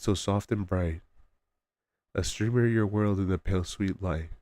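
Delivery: measured, lilting poem recital; reciting a poem to listeners; poem reading. Real, not acted. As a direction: read the rhymed verse line by line. Reads out a poem on stream.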